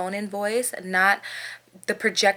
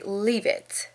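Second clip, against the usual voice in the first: firm dog command without yelling; a little aggressive, controlled; 3 dB quieter than usual. Shown as a demonstration. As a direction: order the dog firmly, no shouting. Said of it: "sound a little aggressive in your voice".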